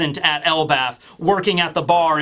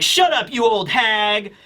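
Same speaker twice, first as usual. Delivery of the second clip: higher-pitched mock snap, last words drawn out; bratty snap; 3 semitones higher, slower than usual. Boy brushing off the woman's sympathy, mock bratty snap. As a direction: imitate a rude kid snapping back.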